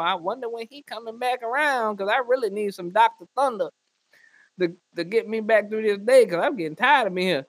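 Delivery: lightly voiced worn-out grandma; sleepy old woman wishing; tired old woman. Old woman in nursing home.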